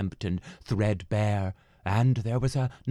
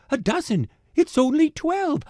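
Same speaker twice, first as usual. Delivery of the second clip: insisting baker; 5 dB louder than usual. A narrator's reading.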